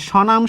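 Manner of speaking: স্বনাম starting with a simple "sho"; silent ব-ফলা. Shown as a demonstration. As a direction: say স্বনাম as "shonam", with no b or w sound. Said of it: "ব ফলার কোনো উচ্চারণ হবে না".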